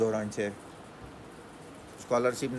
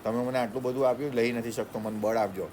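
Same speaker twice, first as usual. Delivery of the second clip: hint of a humble prayer, softer; 2 semitones lower, 4 dB quieter than usual. Student humbly praying to God for strength, soft and humble. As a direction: pray humbly like a beggar. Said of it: "રોજ ભગવાનને કહેવાનું".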